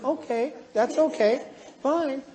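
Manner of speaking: mild, accepting replies, a little high; unruffled. Acted. Sister-in-law answering a raging relative, unruffled. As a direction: take it all without getting upset. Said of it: "Never get upset".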